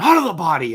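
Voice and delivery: loud, out-of-control, unhinged outburst. Retelling a scene, acting out a character losing it. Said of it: "He just loses it".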